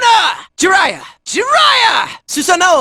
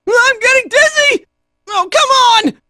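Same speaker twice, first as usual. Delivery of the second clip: high-pitched, distressed exclamation; dizzy distress; 5 semitones higher, 3 dB louder than usual. Acted. Fighter is getting dizzy, high distressed cry. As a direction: protest as your head spins.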